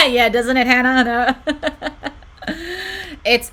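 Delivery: loud, high, words through laughter; laughing hard. Real, not acted. Streamer agreeing with viewer about the misprint, laughing hard. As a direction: talk while cracking up.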